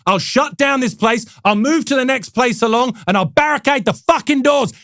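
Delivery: imitated boss working up into a rant; angry CEO. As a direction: threaten to throw them out, hammed up. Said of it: "playbook of angry C E O".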